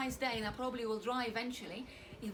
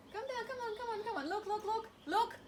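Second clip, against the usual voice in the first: excited urging; 6 semitones higher than usual. Pretend. Urging the water to move.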